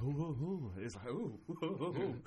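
swooning ooh. Retold or imitated. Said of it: "it was just the accent".

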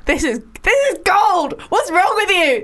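high laughing glee; laughing delight. Real, not acted. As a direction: crack up while praising it.

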